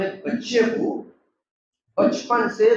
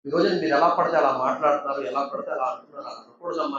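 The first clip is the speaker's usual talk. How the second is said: gentle mother's advice; 5 semitones lower than usual. Acted. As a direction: speak like a mother gently correcting her son. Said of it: "తండ్రి లేనప్పుడు ... అని చెప్పి".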